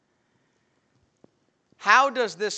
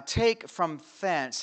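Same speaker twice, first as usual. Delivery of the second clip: slow reading; 4 dB louder, much slower than usual. Retold or imitated. King's command, slow reading.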